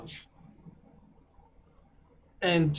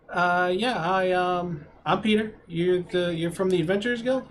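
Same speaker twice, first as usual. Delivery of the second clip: lightly voiced young adventurer, pitched up; Peter, higher voice; 6 semitones higher than usual. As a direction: raise the pitch, a bit unsure. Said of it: "the human in front says".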